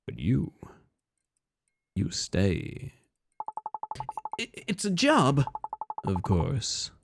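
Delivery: low, hushed, ominous stranger; creepy stranger. Acted. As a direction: speak low and knowingly, like a haunting. Voices the eerie stranger.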